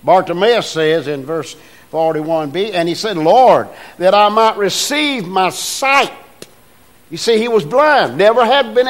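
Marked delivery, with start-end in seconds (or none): 3.2-6.1 earnest plea. Acted. Voices Bartimaeus' request.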